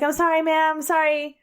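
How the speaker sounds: sheepish sorry, acted out; embarrassed apology. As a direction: imitate a flustered, embarrassed apology. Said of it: "He was super embarrassed".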